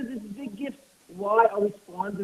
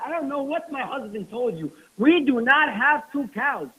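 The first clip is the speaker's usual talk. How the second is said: firm denial; 3 semitones higher than usual. Retold or imitated. Wife firmly denies.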